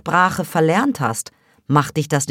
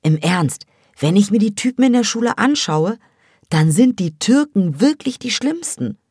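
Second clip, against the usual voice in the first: high, louder scornful rant; scornful gossip; 5 semitones higher, 3 dB louder than usual. A narrator's reading. A girl sneering at the boys to her friend, high and scornful. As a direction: look down your nose at them. Hava mocks Turkish boys' taste.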